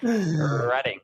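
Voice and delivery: drawn-out R on Reading, short "e"; Reading as RED-ing. Shown as a demonstration. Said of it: "I know that one too".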